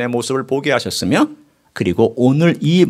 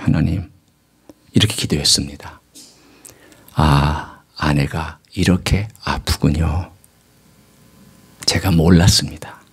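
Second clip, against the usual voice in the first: retold humble prayer; 9 semitones lower than usual. 아내의 아픔을 깨닫고 드린 기도 재연.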